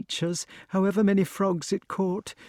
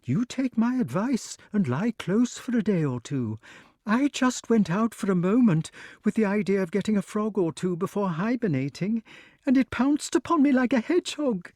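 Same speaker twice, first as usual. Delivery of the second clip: high, fast, breathless chatter; excited snake; 9 semitones higher than usual. A narrator's reading. Snake gushes to Wart about its scare, high and excited. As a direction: babble on, still in a flutter. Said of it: "went on excitedly".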